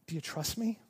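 whisper. Retold or imitated. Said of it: "Jesus whispers to you".

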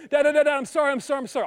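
lightly voiced daughter begging to avoid the spoon; pleading daughter. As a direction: play the frantic child begging Dad. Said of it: "my daughter will say".

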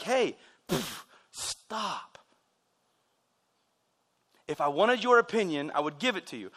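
correcting dad. Retold or imitated. Dad correcting his child, lightly firm and measured. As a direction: imitate a dad reining in his kid. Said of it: "oftentimes it was to correct me".

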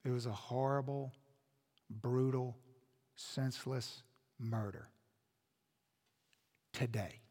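low and soft, heavy pauses between words; grave, hushed. Real, not acted. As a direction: let each word land quietly, gravely. Grave telling of a murder.

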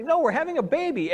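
proud father shares the news; joyful announcement. Retold or imitated. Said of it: "It's like".

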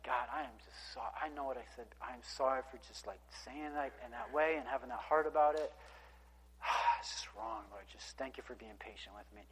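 a believer quietly apologizing to God after a tantrum; repentant prayer. Retold or imitated. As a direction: confess quietly, almost trailing away. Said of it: "we start talking like this".

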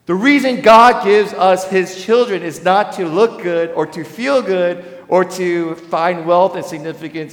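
loud, high preaching build; full-force preaching. Acted. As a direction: preach it out to the whole room.

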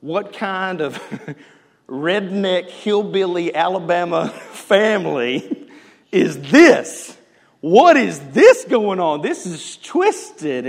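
gawk in amused disgust; scandalized laughing king. Acted. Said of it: "looks down and goes".

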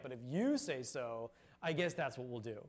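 dry, grudging "if you say so", voice dropped low; mock-reluctant fisherman humoring a stranger; sarcastic. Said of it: "I hear him saying it sarcastically".

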